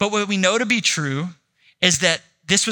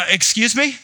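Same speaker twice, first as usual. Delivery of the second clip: indignant surprise; 5 semitones higher, 4 dB louder than usual. Retold or imitated. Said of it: "Everybody's like".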